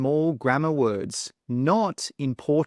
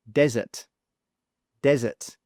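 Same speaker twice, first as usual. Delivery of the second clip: "desert" stressed on DEZ, weak ending; DEZ-ert, hit the start of "desert"; first-syllable stress. Shown as a demonstration. Teacher pronounces the sandy place, stress on DEZ. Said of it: "stress is on the first syllable".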